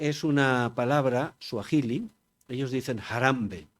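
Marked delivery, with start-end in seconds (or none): 3.0-3.6 Harambe with the stress on the first A, HA-rambe; Swahili stress on Harambe. Shown as a demonstration. Lecturer showing how Kenyans say Harambe, stress on the A. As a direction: say Harambe stressing the opening A, the final e short. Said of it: "con el acento en la A".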